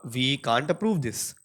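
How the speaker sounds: drawn out, slow, hitting approve; flatly refuse, stressing approve; blunt and direct. Shown as a demonstration. Director turning down a project, blunt and slow. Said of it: "too direct".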